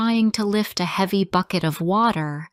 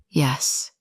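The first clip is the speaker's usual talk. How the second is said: soft; 4 semitones lower than usual. A narrator's reading. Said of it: "he said softly".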